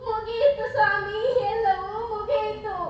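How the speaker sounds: slow, tearful lament; crying. Acted. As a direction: let the tears slow every word. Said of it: "ಅಳಬೇಡ ಚಂದ್ರಮತಿ". (ಅಳುತ್ತಾ ನಿಧಾನವಾಗಿ)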